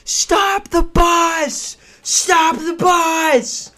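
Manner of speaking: high, drawn-out desperate shouts; frantic yelling. Retold or imitated. Chasing the bus, yelling for it to stop. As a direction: scream after the leaving bus.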